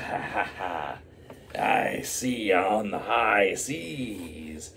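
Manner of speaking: slow, drawn-out pirate farewell with a chuckle; hammed-up pirate taking his leave. Turtle Man bids the crew goodbye in a slow pirate voice. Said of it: "talk like an actual pirate".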